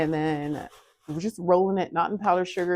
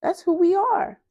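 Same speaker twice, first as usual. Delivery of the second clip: much higher, louder, mock-proud affirmation; imitating husband; 14 semitones higher, 6 dB louder than usual. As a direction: play him proudly declaring it. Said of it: "And he was like".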